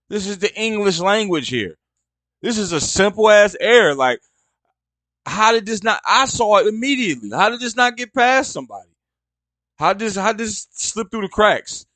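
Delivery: pitched high, incredulous rant at a simple typo; how did nobody catch this, fed up; exasperated. Real, not acted. Ranting at a headline typo.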